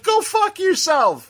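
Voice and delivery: high, slow, hammed-up snarl; mock angry retort. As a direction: spit it at the spoiler. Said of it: "it's like".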